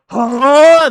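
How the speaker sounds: high, loud startled huh; mock shocked bystander; stunned huh. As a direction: react like your eyes are bulging. Onlookers stunned by battleship.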